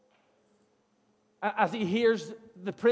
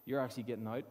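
disbelief; 7 semitones lower, 7 dB quieter than usual. Retold or imitated. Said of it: "saying it with, like, disbelief".

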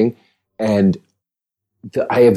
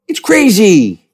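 much higher, louder, slow put-on voice; Sam Rockwell; 11 semitones higher, 4 dB louder, much slower than usual. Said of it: "That's my Sam Rockwell impression".

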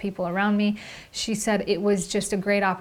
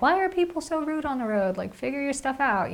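exasperated rant; 5 semitones higher than usual. Retold or imitated. Mocking rude drivers on road.

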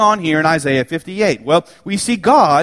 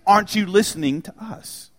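people crying out to God; 2 semitones higher than usual. Acted. Preacher voicing worshippers who cry out to God, pleading. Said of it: "they're crying out".

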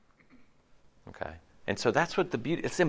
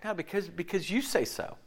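humble deference; 5 semitones higher than usual. Retold or imitated. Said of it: "He's like".

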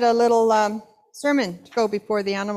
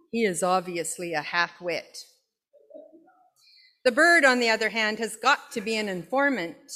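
grumpy bored cat. Acted. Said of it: "the kind of grumpy bored cat Dear Diary".

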